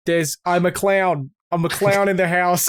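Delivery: half-hearted, badly faked Boston accent; attempted Boston accent. Shown as a demonstration. Friend asked him to do it, shaky attempt at Boston accent. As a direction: try a Boston accent and miss. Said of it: "do it in a Boston accent".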